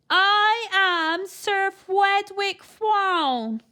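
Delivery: very slow, loud, high toff saying Fwedwick with W for R; pompous aristocrat announcing himself slowly; grand announcement with Fwedwick and Fwown; posh R as W. A narrator's reading. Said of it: "his R's came out as W's".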